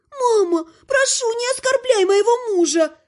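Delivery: high crying plea to mother; tearful plea. Acted. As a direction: beg through tears. Daughter defends her husband.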